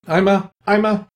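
put-on high, faltering little-girl voice; hesitant stammer. A narrator's reading. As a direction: stumble over the words. Alice stammering, unsure.

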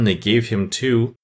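king mulls it over slowly to himself; slow muttering. Acted. King puzzles over the verses to himself, slowly. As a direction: drag it out, puzzling. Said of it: "muttering over the verses".

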